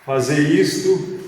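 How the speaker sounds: ordinary talk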